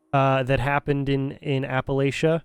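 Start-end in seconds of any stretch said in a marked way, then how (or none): 1.6-2.4 Appalachia said with a LAY-sha ending; accepted pronunciation. Shown as a demonstration. Streamer naming the game's region, Appalachia pronounced "ap-uh-LAY-sha". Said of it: "The only one that's wrong".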